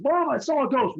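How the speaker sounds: put-on high, loud kid calling out to mom; a boy announcing big news; excited kid. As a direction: friend running home to tell his mom. Buddy tells his mom.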